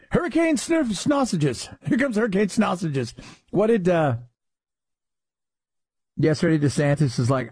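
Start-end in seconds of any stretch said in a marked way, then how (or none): 0.1-3.1 silly botched name "Snossages"; playful announcing of "Snossages" as if it were the name; mock mispronunciation. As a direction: mangle the name into "Sniff Snossages". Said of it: "watching people try to say".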